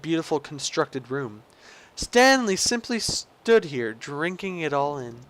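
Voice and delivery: theatrical, savouring narrator voice; game story narration. Acted. Player narrating Stanley admiring the lounge, theatrical storyteller.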